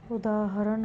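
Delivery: उदाहरण said as u-daa-ha-ran; correct pronunciation. Shown as a demonstration. Teacher giving the correction, उदाहरण with its h. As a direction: sound the h in उदाहरण. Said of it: "होगा".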